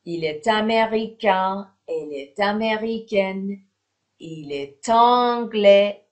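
"est anglais" linked as "è-tanglais"; teacher's model reading, each "est" joined to the next word by a t; with liaison. Shown as a demonstration. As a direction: sound the t of "est" into "américain", "américaine" and "anglais". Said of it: "چون ت داره".

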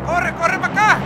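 high frantic yelling for help; panicked shouting. Real, not acted. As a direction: yell it in real panic, high and loud. Panicked call for help in game.

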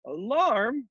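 high, rising sleepy question; half-awake storybook voice; yawning. Acted. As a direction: ask it through an acted yawn. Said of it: "yawned the trumpeter".

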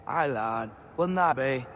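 lightly imitated Scottish accent; a rough stab at a Scottish lilt; Mimir. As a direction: attempt a Scottish accent, not quite convincingly. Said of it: "I can't do your accent".

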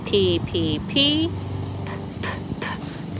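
P popped as short puffs; letter sound drill. Shown as a demonstration. Teacher modelling the P sound for her class, popped. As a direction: pop out the P sound repeatedly. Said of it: "What sound does P make?".

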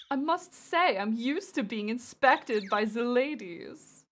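slow, drawn-out, lightly flamboyant German flirt. Acted. Streamer voicing a game character used to the ladies, flamboyant. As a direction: savour each word with flamboyant flair. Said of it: "a flamboyant voice".

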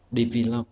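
"develop" stressed on its second syllable. Shown as a demonstration. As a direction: put the weight on "-vel-" in "develop". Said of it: "trọng âm rơi vào âm tiết thứ hai".

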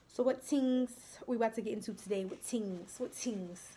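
lightly mimicked Jamaican accent, "tings" for "things"; amateur Jamaican accent, just for fun; bad Jamaican accent. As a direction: put on a playful, half-hearted Jamaican accent. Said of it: "That is a bad accent".

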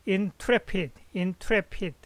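"intrepid" with the stress on TRE, in-TRE-pid; stress on second syllable. Shown as a demonstration. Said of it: "액센트가 투레에 있습니다".

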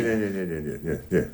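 laughing refusal. Acted. Laughing refusal of more poems.

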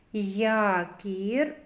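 Якір with the А sound stretched out; drawn-out А. Shown as a demonstration. Teacher picks out the vowel for children, drawn-out А. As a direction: hold the opening Я in Якір. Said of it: "а голосний".

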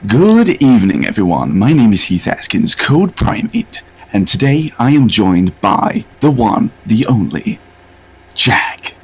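loud, swooping video host intro; Heath Askins impression. Impersonating a friend opening their videos, loud drawn-out host voice. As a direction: open the show big, stretched out and pitched high. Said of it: "do an impression of you when you open your videos".

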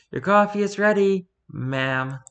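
high, bright announcement; delighted barista. Pretend. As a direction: sing it out like a happy barista. Barista says ma'am, joyful.

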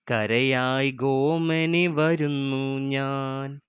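slow, even recital of the verse; poem recitation. Acted. Teacher reciting Asan's poem to her students, measured recital. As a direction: read each line as a measured poem.

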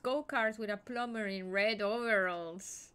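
baffled loud question; loud puzzled rant. Real, not acted.

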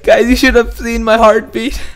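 high-pitched after a fright; rattled. Real, not acted. Still rattled from jump scare.

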